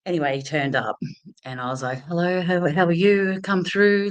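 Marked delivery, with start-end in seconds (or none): 2.1-4.1 bright, higher, falsely breezy welcome; fake confidence. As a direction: greet him as if you'd done a million of these. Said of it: "pretending to be so confident".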